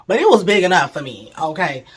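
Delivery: cracking up at your own joke; laughing. Real, not acted. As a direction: giggle through the punchline.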